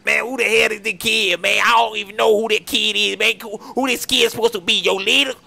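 loud, exasperated demand; angry yelling. Acted. Homeowner yelling at the robber about the strange kid, loud and fed up. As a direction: bark it at him, fed up.

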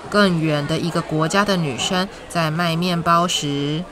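gentle storytime voice, clear and even; reading to a toddler. Acted. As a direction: read it like a bedtime picture book. Reads picture book to children.

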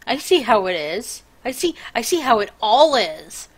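loud, put-upon I see how it is; mock offended. Real, not acted.

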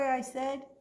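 clear, lively storytime reading voice; story narration. A narrator's reading. Librarian reads Winn-Dixie to the kids, storytelling. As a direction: read the story to the children.

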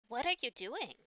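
put-on high surprised spider girl; startled question. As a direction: ask it in shock.

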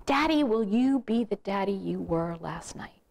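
lightly voiced little girl's plea; a hint of a child's voice, asking Daddy; six-year-old daughter. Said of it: "my six-year-old daughter came running toward me".

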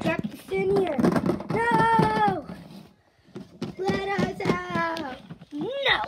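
loud panicked toy voices; protesting shout. Pretend. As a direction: yell in protest at being trapped. Trapped toys protesting.

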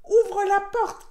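loud, high, drawn-out wolf demand; big storybook wolf yell; shouted command. A narrator's reading. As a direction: shout it at a closed door, stretching the words. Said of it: "cria le loup".

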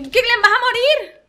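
slow, loud and high, hammed-up villain cry; theatrical threat to a teammate; mock death threat. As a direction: gloat it like a cartoon villain.

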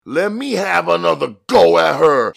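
high, pleading street voice; begging. A narrator's reading. Jimmy begging his partner, high and pleading. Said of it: "he begged".

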